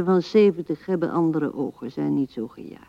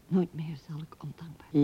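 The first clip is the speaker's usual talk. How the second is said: whispered vow; 7 dB quieter, faster than usual. Acted. Repeats the vow bitterly.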